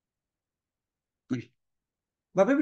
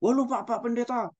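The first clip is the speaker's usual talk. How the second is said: higher, aggrieved wife; mock complaining wife; 5 semitones higher than usual. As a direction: play the wife defending herself. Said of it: "ibu-ibu juga nggak mau kalah". (istri yang tidak mau kalah kepada Pak Pendeta, nada tinggi)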